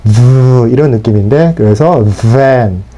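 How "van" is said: van slow with buzzing lips on the V; voiced V. Shown as a demonstration. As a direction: buzz the V of van through the teeth. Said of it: "성대를 울리셔야 됩니다". (성대를 울리며 van)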